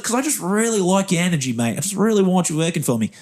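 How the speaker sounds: high-pitched, emphatic bad New Zealand accent. Interviewer offering a job regardless, emphatic New Zealand accent. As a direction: make the offer in an amateur Kiwi accent. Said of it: "do a very bad New Zealand accent".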